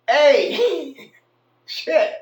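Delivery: high, loud startled curse with a laugh; surprised laughing curse. Retold or imitated. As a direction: blurt it out, caught off guard and laughing. Jay reacts to fifty dollar bills.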